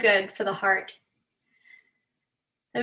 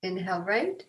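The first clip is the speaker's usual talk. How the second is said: guided breathing. Real, not acted. Leads breathing exercise.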